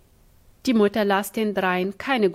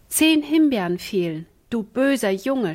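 scolding; 3 semitones higher than usual. Acted. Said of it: "schalt sie".

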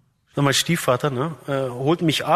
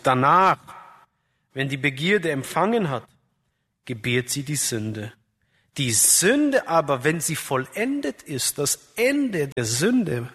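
scripture reading. Acted. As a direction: read the verse as a solemn warning, stretching the key words. Reads James chapter one aloud.

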